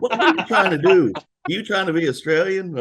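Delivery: high, loud mock disbelief; incredulous woman. Woman in a bar challenging his accent, incredulous. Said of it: "she turned around to me and said".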